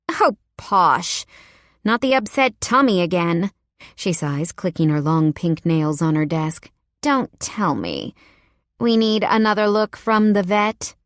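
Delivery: a hint of a pampered boss fretting over her cat; sighing mildly over the sick cat; lightly voiced fussy wife. Wife fussing over her cat, in a lightly put-on voice.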